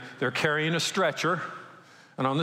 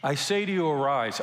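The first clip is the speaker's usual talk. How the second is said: commanding. Retold or imitated. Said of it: "that's an all or nothing statement".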